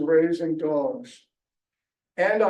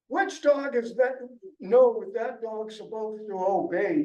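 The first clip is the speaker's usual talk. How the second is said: retold shout; 4 semitones higher than usual. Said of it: "he shouted to me".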